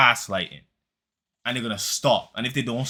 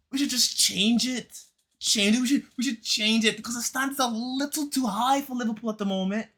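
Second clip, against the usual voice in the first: mock sarcastic; 7 semitones higher than usual.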